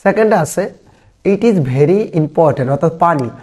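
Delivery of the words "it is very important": very slow, word by word; slow dictation. Shown as a demonstration. Teacher reading the exam sentence to students, very slow. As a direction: read it out slowly for note-taking.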